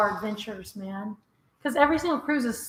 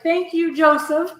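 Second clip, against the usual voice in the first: higher, louder pretend toast of thanks; acted thanks; 4 semitones higher, 4 dB louder, slower than usual. Imagining buying a drink on viewer's tip, playful raised thanks. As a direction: call out a playful mock thank-you. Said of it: "I'm gonna be like".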